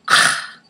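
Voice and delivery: imitated huff of disgust; short, disgusted "ah" at a guest; disgusted scoff. Desk lady to complaining guests, disgusted scoff. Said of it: "like she's disgusted by us".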